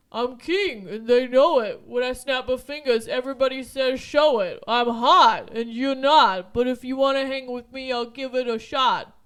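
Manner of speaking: loud, slow tough-guy rap; bad Rocky impression. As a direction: rap it like a punch-drunk boxer. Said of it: "I do a horrible Rocky impression".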